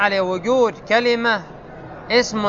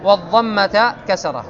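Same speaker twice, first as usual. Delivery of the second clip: measured, raised recital of the classical grammar text; reading the text; 2 semitones higher, slower than usual. Acted. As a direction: read the rule out like a set text. Reads grammar text aloud.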